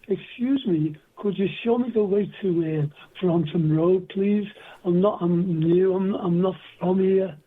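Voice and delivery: gentle Liverpool accent, polite; soft-spoken Liverpool lad asking directions. Shown as a demonstration. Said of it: "I had a Liverpool accent, which went like this".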